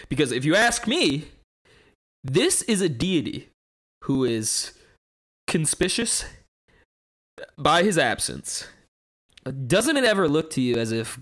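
theatrical skeptic's monologue with big rises; acted monologue. Auditioning friends, delivering a dramatic atheist monologue. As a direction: perform it like an audition speech. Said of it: "I forgot you were doing a monologue".

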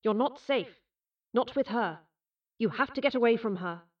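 remembered warning with an echo effect; echoing inner voice; voice in her head. A narrator's reading. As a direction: warn urgently, like an echoing memory. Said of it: "the words sounded in her head".

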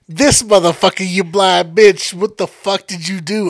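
loud slow mock berating; retold scolding. Coworker scolding the driver, loud mock anger. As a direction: chew him out loudly, half acted. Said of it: "She was like".

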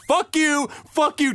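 high mock yell, punched out; acted-out angry jabs; retold angry yelling. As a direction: imitate a man cursing out a crowd. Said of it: "he actually screams like".

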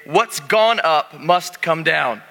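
slow, spelled-out words for the congregation to repeat; slow call-and-response. Shown as a demonstration. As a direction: model the phrase slowly so they echo it. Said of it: "turn to your neighbor and say".

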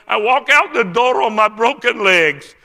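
imitated tearful cry, high and loud. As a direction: retell it as an overwhelmed, loud testimony. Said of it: "And he's crying now".

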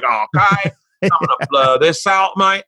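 hammed-up British "mate" voice; British accent. Comic insists the Japanese guy talks so, British accent. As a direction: play him as a broad Brit. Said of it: "a British accent for a Japanese accent".

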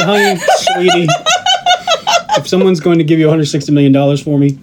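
laughing. Retold or imitated. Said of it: "I said".

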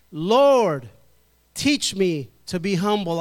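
preacher teaching the congregation its response line; call phrase. Shown as a demonstration. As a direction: call the phrase out for the room to repeat. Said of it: "So when you hear me say".

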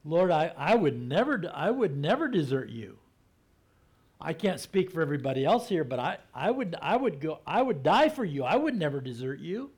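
indignant loyal protest, rising in force; earnest disciple pleading his loyalty; Peter protesting. Retold or imitated. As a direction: swear you'd never leave him. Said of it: "And Peter's like".

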